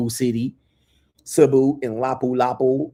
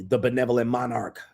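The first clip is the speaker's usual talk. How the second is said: usual speaking voice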